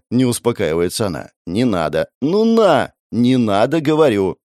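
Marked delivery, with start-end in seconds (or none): 1.5-4.4 a bit louder back-and-forth squabble; mock squabble, voices raised. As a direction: push back, raising the voice slightly. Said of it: "Слегка повышаю голос".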